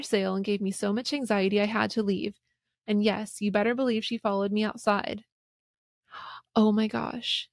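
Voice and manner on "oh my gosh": slow, gasping oh my gosh; gasp, then breathe it out in shock. Real, not acted. Gasps at the story.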